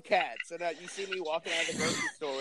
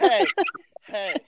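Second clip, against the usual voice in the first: drunk wife impression; 7 semitones higher, 10 dB louder than usual. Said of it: "my impression of my wife when she's been drinking".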